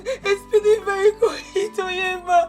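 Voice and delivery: crying. Acted. Reporting brother's accident, crying.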